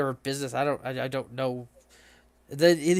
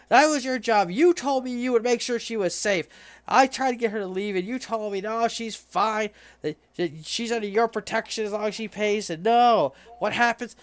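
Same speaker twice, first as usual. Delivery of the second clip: a hint of an angry grieving man, higher; accusing yell; 5 semitones higher than usual. Grieving man rounding on the Minotaur, mildly mock angry and higher. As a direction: snap at the bodyguard in mild mock anger. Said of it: "he's mad".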